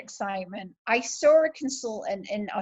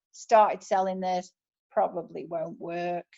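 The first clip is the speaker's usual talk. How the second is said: mock gloomy; 5 semitones lower than usual. Reading a gloomy launch post.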